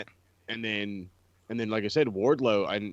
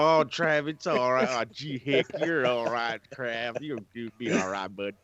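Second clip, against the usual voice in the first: mock-consoling Southern accent. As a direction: console a buddy in a lightly hammed Southern accent. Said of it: "making fun of damn Southern accents".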